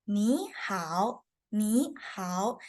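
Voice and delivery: "ni hao" with clear rising and dipping tones; teacher's careful "ni hao", tones drawn out; Mandarin tones. Shown as a demonstration. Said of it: "It is".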